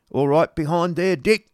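high, loud call to the back of the coach; coachman calling out. A narrator's reading. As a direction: shout back to Dick on the coach. Coachman cries out.

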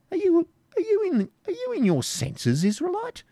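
sharp stern baron's question. Acted. Baron sternly threatening the Jew. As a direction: demand it sternly. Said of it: "said the Norman sternly".

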